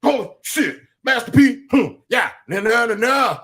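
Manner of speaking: mock her gushing over Master P; imitating co-host hyped. Host mimics co-host gushing, high and loud. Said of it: "You're like".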